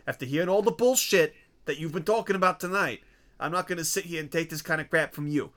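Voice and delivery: heated wise guy rant; angry tough guy. Acted. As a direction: rant like an offended mobster. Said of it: "I'm really having fun with that".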